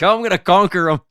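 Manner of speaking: high-pitched, laughing retold boast; amused mock war cry; gleeful determination. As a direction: imitate an excited rower's battle cry. Retelling friend's gleeful race for hole.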